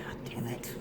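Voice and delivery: low, soft, unvoiced curse; a defeated under-the-breath curse; hushed god damn it; whispered curse. Real, not acted. Stung by the reading.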